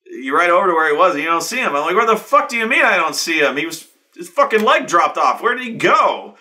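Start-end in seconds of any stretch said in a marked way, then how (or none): 0.0-1.8 higher, louder teasing game master; lightly voiced smug DM springing a twist. DM telling the player his friend has vanished, smug. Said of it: "he's like". 1.9-6.4 high, loud disbelieving protest; baffled outrage. Retold or imitated. Player protesting to the DM about the vanished friend, incredulous.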